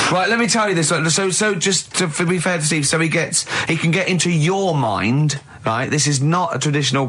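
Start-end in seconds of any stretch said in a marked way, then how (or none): 0.1-5.4 mock Carl. Mocking Carl's rambling explanation.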